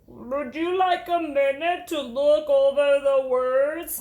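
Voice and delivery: slow, gentle teacher praising a pupil; warm teacher voice. Acted. Teacher praising Jamaica's reading, warm and slow. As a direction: praise her reading kindly.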